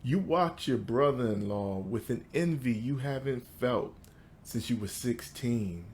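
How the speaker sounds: measured recital with pauses between phrases; poetry reading. Acted. Poet reads to an audience about his father, measured poetry recital. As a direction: lift the line openings, let the endings fall away. Reads second poem aloud.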